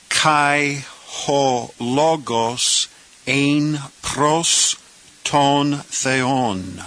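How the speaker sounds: very slow, every syllable of "Kai ho logos ein pros ton theon" drawn out; slow careful reading. Shown as a demonstration. Teacher reading the second clause to beginners, very slow. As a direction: take the Greek clause very slowly. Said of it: "now let's say this clause".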